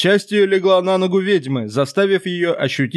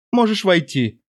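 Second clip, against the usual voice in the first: cooing; 2 semitones higher than usual. Acted. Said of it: "проворковала она".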